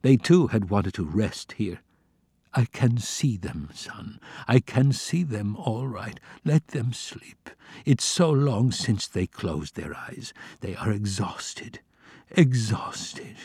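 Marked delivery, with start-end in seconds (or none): 2.5-13.4 put-on slow and soft, a tired old father soothing his son; gently, slowly, a touch weary; tender. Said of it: "His voice was tender".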